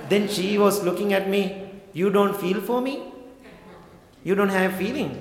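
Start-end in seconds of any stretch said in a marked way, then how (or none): 1.9-5.1 mildly offended, higher-pitched questions; retold offended questioning. Offended lady challenging the monk who stayed calm, mock hurt questioning. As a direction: put it as a hurt, disbelieving question, pitched up a little. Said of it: "she felt so offended".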